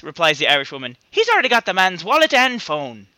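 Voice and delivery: put-on deliberately botched British accent, Dick Van Dyke style; bad English accent. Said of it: "Dick Van Dyke my accent".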